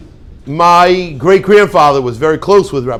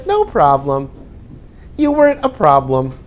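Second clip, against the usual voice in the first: nice way; 3 semitones lower, 4 dB quieter than usual. Shown as a demonstration. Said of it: "they'll say it in a nice way".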